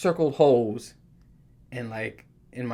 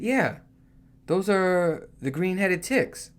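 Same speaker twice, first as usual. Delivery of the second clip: casual coworker; 5 semitones higher, much slower than usual. Retold or imitated.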